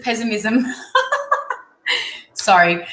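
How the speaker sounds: breaking into a real laugh; laughing at herself. Real, not acted. Reader losing the word mid-reading, laughing at herself. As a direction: let the word tip into giggles. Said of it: "I'm laughing at how".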